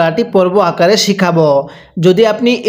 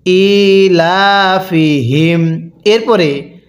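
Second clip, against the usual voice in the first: very slow, drawn-out melodic recitation; slow chanted tajweed reading; Quran recitation; much slower than usual. Shown as a demonstration. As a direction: recite each syllable long and sung. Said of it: "এবার মিলিয়ে পড়ুন".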